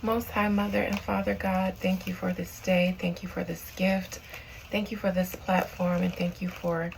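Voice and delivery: steady, reverent prayer voice. Acted. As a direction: address God with calm reverence. Opens a prayer to God.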